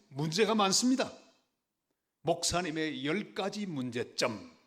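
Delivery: loud, high mock accusation; retold accusation. Church members confronting their pastor with his faults, accusatory.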